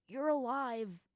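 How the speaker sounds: high, loud happy cry; joyful exclamation. A narrator's reading. Joyful cheer while hugging a friend.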